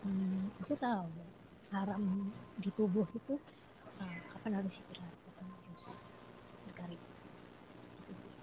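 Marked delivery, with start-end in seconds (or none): 4.0-8.3 far from mic. Real, not acted. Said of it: "suaranya agak didekatkan mikrofonnya".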